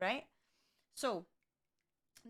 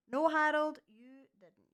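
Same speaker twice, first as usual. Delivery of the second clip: indignant retort; 6 semitones higher, 8 dB louder, slower than usual. Real, not acted. Retort to the doctor.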